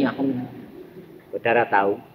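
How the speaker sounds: usual speaking voice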